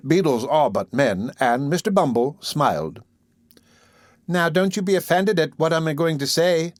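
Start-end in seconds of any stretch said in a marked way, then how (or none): 4.3-6.7 sweet. Acted. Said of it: "with captivating sweetness".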